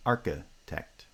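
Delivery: main stress on the start of architect; primary stress on first foot. Shown as a demonstration. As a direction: architect in two feet, first syllable strongest. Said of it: "it's primary stress".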